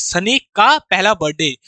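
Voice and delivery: "का" spelled out slowly with weight; slow, deliberate "Sunny का पहला बर्थडे" with "का" stressed; slow explaining. Shown as a demonstration. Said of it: "सन्नीज ऐसे बोलेंगे". (धीरे धीरे समझाते हुए, "का" पर ज़ोर)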